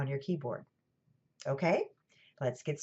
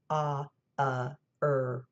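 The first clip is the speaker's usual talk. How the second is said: filler sounds; 4 semitones lower, slower than usual. Shown as a demonstration. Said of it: "don't forget our fillers".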